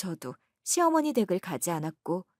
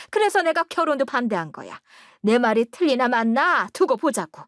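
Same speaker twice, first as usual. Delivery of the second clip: louder, scornful warning from the mother; spiteful mother-in-law; 2 semitones higher, 5 dB louder than usual. Acted. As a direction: sneer at the wife, warn the son. Mother-in-law warns her son. (비꼬는 시어머니 말투)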